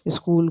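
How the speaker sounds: स्कूल said as "sakool"; mispronounced स्कूल. Shown as a demonstration. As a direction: split the opening of स्कूल with an "a". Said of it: "शब्दों के उच्चारण की शुद्धता".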